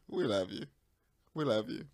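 soft we love you. Real, not acted. Co-host soothing the angry host, soft and tender. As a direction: coo it gently to smooth things over.

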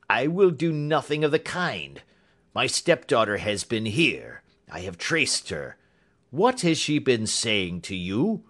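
indignant, forceful bluster; refuse, then interrogate hard; angry demand. Acted. Roylott questions Holmes about his stepdaughter, angry demand.

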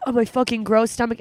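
mild disgust at her own stomach; disgusted self-talk. Retold or imitated. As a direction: sneer at your own body, lightly. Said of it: "I'll catch myself being like".

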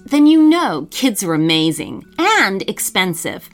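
upbeat sponsor read. Acted. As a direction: sell it like a radio ad. Podcast promo and sponsor ad.

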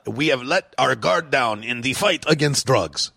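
lightly put-on, bad French accent; terrible French accent. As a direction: quote it in a clumsy mock French accent. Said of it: "that's a terrible French accent".

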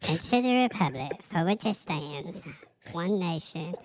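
christmas elf. Acted. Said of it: "You need to do the elf voice".

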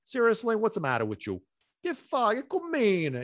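a hint of an exasperated heavenly voice; God scolding. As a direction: voice God rolling his eyes at you. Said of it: "like, God looking at me like".

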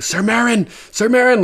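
hammed-up summons across the hall; mock calling out. Tywin calling his guard to restore order, mock shout. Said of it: "Tywin starts calling".

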